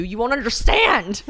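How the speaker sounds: loud, high, drawn-out protest; mock exasperated outburst. Telling James the show isn't for him, mock exasperated yell. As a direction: cry it out slowly, exasperated.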